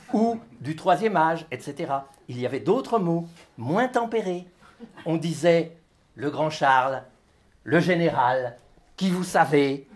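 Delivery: measured list-poem recitation with pauses; declaimed text for an audience; live literary reading. Acted. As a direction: read it as a litany, item by item. Reads own text aloud.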